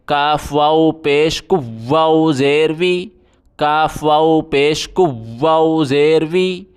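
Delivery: کو with the واو pressed hard and doubled. Shown as a demonstration. Teacher showing pupils the tashdeed, hard doubled w. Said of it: "سختی کریں".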